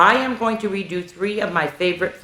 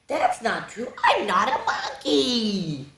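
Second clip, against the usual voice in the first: soft, laughing whine of denial; mock protest; 4 semitones higher, 5 dB quieter, slower than usual. Reader objecting to monkey claim, comic whine. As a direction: deny it quietly, drawing out the end.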